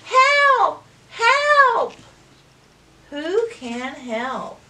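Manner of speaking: high, loud cry for help; duck yelling for help. Acted. Duck stuck in the muck calls for help, loud high shout.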